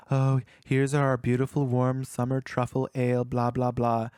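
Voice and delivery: monotone waiter reciting specials; mock waiter's empty recital; vapid spiel. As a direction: rattle it off vacantly, imitating a waiter. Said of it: "just kinda vapidly stating all these things".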